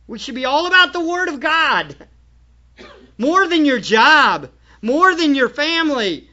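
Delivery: loud, emphatic, building list; forceful preaching. Real, not acted. Preacher urges church to put the Word first, forceful preaching.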